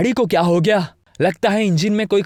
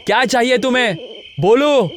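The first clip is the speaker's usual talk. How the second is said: put-on a young man losing patience; angry demand; 5 semitones higher than usual. Arnav confronts staring strangers.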